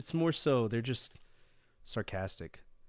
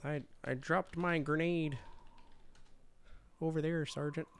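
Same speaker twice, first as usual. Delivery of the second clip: meek recruit; 4 semitones higher, 7 dB quieter than usual. Retold or imitated. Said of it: "Where is it?".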